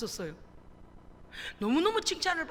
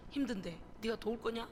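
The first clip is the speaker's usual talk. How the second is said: muttered inner retort; 2 semitones lower, 7 dB quieter than usual. Retold or imitated. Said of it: "속으로는 이랬어".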